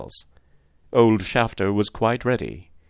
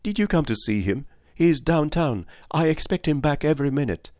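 put-on slight German accent; 7 semitones higher than usual. A narrator's reading. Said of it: "with a pleasing little touch of a German accent".

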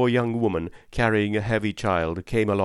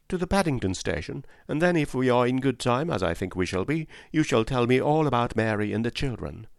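lightly voiced, higher-pitched lady; friendly lady; 4 semitones higher than usual. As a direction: chat kindly while giving directions. Lady gives cabman directions.

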